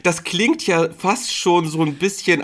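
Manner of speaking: high, laughing disbelief; laughing incredulous. Real, not acted. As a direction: laugh through the words in disbelief. Amused incredulous reaction.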